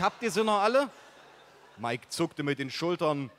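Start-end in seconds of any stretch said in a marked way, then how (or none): 0.0-0.9 higher, louder outraged yell; exasperated shout. Acted. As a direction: call them crazy at full voice. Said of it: "rief ich". (empörter, lauter Ausruf)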